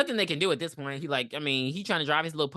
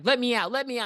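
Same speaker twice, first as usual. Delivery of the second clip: acted panic; 7 semitones higher, faster than usual. Acts trapped passenger demanding out.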